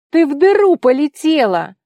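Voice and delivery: high, loud frightened yell; alarmed shout. Acted. Tigir yelling after her fall. (испуганный крик)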